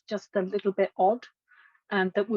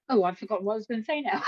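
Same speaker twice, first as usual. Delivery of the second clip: laughing; much faster than usual. Real, not acted. Laughs at losing her thread.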